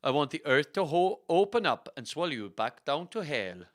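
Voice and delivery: hammed-up Swedish fury; Swedish-accented mock rage, starting loud; raging Swedish accent. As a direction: curse them in a silly Swedish accent. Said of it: "she raged".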